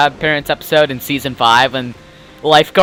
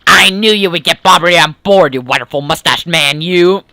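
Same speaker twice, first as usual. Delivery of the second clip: pirate voice. Acted. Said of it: "I'm gonna do the pirate voice".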